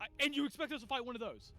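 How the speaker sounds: loud, high, incredulous challenge; Aiden. Acted. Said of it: "Aiden turns back and goes".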